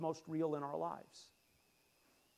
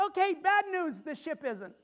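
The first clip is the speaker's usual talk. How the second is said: God's bad news; 7 semitones higher than usual. God telling sailors the ship won't survive, high then falling. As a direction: deliver the twist, then let it fall. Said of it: "He goes".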